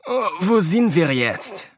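slow sleepy yawning question. Acted. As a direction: ask it through a yawn. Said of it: "erkundigte sich Kasakow und gähnte herzhaft".

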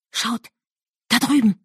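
hushed warning, scared of being heard; frightened whisper. A narrator's reading. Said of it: "flüsterte sie ängstlich". (ängstliches Flüstern)

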